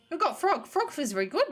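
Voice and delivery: big dopey cartoon voice; dopey cartoon bellow. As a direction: bellow it like a dim, hungry oaf. Quina's lines voiced by player.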